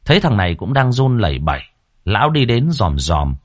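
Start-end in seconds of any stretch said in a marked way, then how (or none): none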